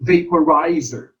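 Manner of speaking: "Vaporizer" as va-po-RI-zer; teacher models "Vaporizer", accent on the third syllable; third-syllable stress. Shown as a demonstration. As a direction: lean on RI in "Vaporizer". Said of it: "the third syllable is accented".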